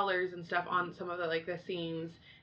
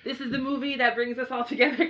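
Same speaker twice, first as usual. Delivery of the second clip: Taika Waititi impression; 7 semitones higher, 7 dB louder than usual. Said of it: "Taka was like".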